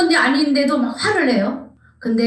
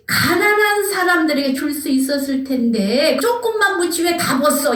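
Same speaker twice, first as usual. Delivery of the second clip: higher-pitched scolding complaint; acted reproach; 5 semitones higher than usual. Onlookers reproaching Mary over the poor, higher-pitched scolding. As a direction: scold them for the waste, pitched up. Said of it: "책망을 하는 거예요".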